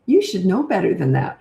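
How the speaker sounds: mildly mock reproach; shaming, condescending. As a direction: talk down to a child, lightly imitated. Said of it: "it's shaming and blaming".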